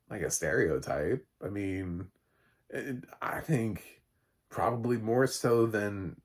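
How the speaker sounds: ordinary delivery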